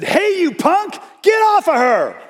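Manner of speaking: high, loud yell to stop a man; high-pitched shout at the attacker to get off the girl. Retold or imitated. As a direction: shout him off her. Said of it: "I got a big mouth".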